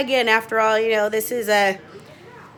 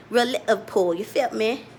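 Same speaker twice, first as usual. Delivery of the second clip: lightly attempted Liverpool accent; bad Liverpool accent. Shown as a demonstration. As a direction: have a shaky go at a Liverpool accent. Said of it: "like, Liverpool accent".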